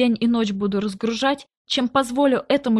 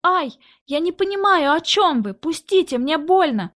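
put-on girl grabbed by the arm, crying out in pain; frightened cry; 5 semitones higher than usual. A narrator's reading. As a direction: cry out as he grabs your elbow. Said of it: "вскрикнула я".

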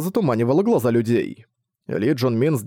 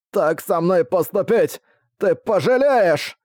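strangled, slow, higher threat; struggling against restraints; 6 semitones higher, slower than usual. Acted. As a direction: threaten while being choked. Choked guard threatens his killer.

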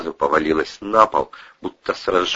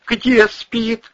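dazed question; 4 dB louder than usual. Acted. Husband in a daze.

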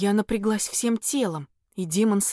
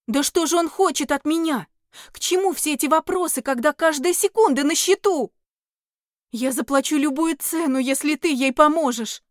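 raised, urgent pleading; desperate; 6 semitones higher, 5 dB louder than usual. Acted. Heroine pleads with the questioning demon, desperate raised voice. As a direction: hurry him, every second counts.

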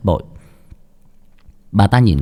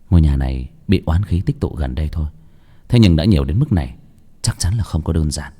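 lower, inward voice; old master thinking; 4 semitones lower than usual. Acted. Bác Cổ's inner thought. (giọng trầm, suy nghĩ trong đầu)

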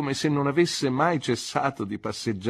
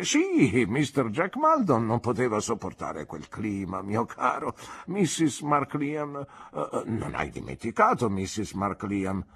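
put-on doddering old doctor, halting and fading into hesitations; rambling old man losing his thread; kindly old doctor; 3 semitones higher than usual. Old doctor talking about his wife Annie, hesitant and fading.

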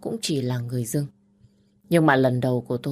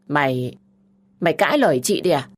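louder, stammering outrage; shocked she talks back; furious big sister; indignant sister; 5 dB louder than usual. Acted.

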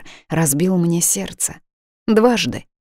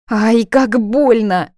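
slow, higher, louder howl of pain; 6 semitones higher, 4 dB louder, much slower than usual. Acted. Heroine's wrist is squeezed, slow pained howl. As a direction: howl it out, hurting. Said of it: "взвыла я".

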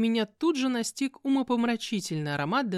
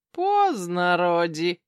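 chuckling; 6 dB louder, much slower than usual. Acted. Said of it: "хохотнул бес".

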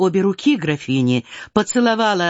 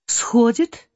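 Сходит asked back with a rising question; puzzled echo; 4 semitones higher than usual. Acted. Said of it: "повторила Наташа".

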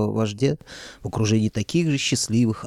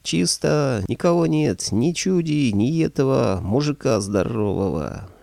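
shouted from the street; 5 semitones higher, slower than usual. Acted. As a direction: yell the all-clear from afar. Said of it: "заорав с улицы".

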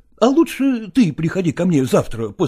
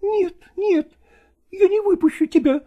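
much higher insistent cry; exclaiming; 13 semitones higher than usual. A narrator's reading. Nastina holds Lagorsky back, much higher insistent cry. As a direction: refuse to let him go. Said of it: "воскликнула Настина".

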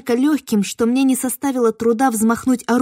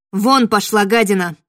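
angry rebuff; 6 dB louder than usual. Acted. Narrator drives off the witch.

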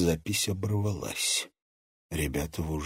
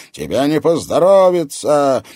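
loud, high menacing threat; 9 semitones higher, 12 dB louder than usual. A narrator's reading. Interrogator threatening the mocking captive woman. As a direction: scare her into talking.

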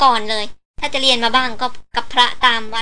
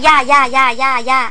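the same syllable bouncing repeatedly; imitated echo; 4 dB louder than usual. A narrator's reading. Helper explains the boss's shout echoing back, imitated echo. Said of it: "มันสะท้อนกลับไปกลับมา".

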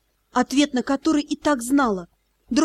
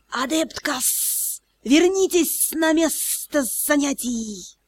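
serpent voice; 3 dB quieter, slower than usual. Acted. Serpent teacher orders student back.

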